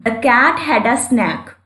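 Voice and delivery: The cat had a snack, every word stretched; slow example reading again. Shown as a demonstration. Teacher rereading the example so students spot the vowel.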